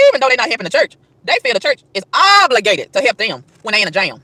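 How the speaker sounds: slow, deliberate, every word spelled out; slow it right down so it sinks in; preacher slowing down to drive the point home; said real slow. Shown as a demonstration. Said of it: "Let me say that real slow".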